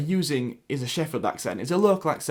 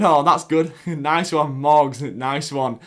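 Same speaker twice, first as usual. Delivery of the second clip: mocking commenters; 7 dB louder, much slower than usual. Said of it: "the amount of people saying".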